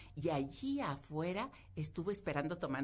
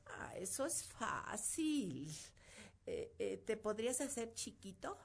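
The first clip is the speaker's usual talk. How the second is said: put-on nervous girl; 5 semitones higher, 5 dB quieter than usual. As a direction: feign calm over her fear. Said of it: "con mucho miedo".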